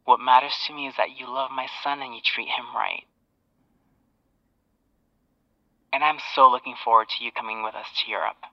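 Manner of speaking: soft Southern woman's voice down a phone line; lightly voiced Southern mom, quiet and reassuring; Southern accent. Boyfriend's mom accepting her son's girlfriend, soft Southern accent. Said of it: "with a Southern accent".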